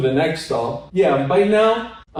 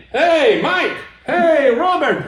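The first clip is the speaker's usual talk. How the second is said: calling out; 11 semitones higher, 3 dB louder, slower than usual. Retold or imitated. Calling out names on the Camino.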